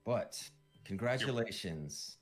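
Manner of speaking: a hint of a quirky fortune teller. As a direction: play the odd old seer, puzzled then pleased. GM voices Kuprian fortune teller.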